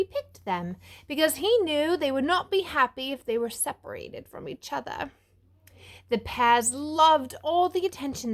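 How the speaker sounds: storytelling in a put-on British accent. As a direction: read it like a proper British storyteller. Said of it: "I'm gonna read it in my best British accent".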